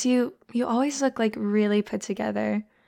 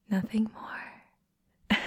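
"Nothing more" whispered slowly, rising; 4 dB quieter, much slower than usual. Acted. Telling a shy friend they are just friends, slow whisper. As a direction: tease it out in a hush.

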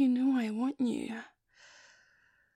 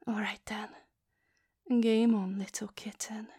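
soft, breathy dare whispered close; teasing whisper; 4 semitones lower, 4 dB quieter than usual. Acted. To her boyfriend, daring him to dominate, in a teasing whisper. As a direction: whisper it like a challenge you expect to win.

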